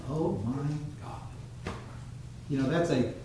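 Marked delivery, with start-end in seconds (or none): 0.1-1.7 quiet, drawn-out throwaway oath; careless, spat out. Acted. Preacher showing a careless, casual use of God's name, spat out. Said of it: "it's like they're spitting it out".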